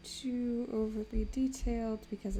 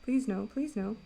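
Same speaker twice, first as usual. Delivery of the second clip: panicked pleading no; desperate repeated no, louder; anguished denial; 3 dB louder than usual. Real, not acted. Panic after scare while painting.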